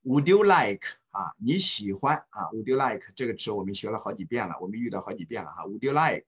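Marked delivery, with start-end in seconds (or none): 0.0-0.9 slow, clear model phrase to repeat. Shown as a demonstration. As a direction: say it slowly for students to copy. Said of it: "然后跟我读哈". (慢速示范)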